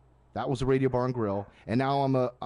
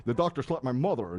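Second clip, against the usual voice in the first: Rodney Dangerfield. Retold or imitated. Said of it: "be like Rodney or something like that".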